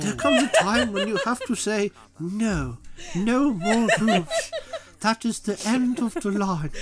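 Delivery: lightly put-on stateswoman's speech; Thatcher. Comedian giving kids a Thatcher impression, mock-solemn speech. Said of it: "It's my Thatcher impression".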